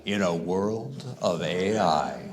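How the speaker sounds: a hint of the movie-trailer voiceover; movie trailer guy. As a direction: do a mild "movie guy" impression. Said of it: "I almost sounded like that movie guy".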